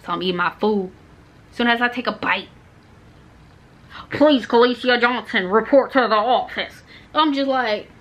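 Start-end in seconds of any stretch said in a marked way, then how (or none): 4.1-6.8 lightly voiced school announcer; intercom announcement. Principal calling student to the office, mock announcement. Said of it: "principal or whatever talking on the intercom".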